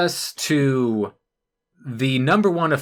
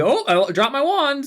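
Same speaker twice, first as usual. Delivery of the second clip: mocking ditzy fairy; 11 semitones higher than usual.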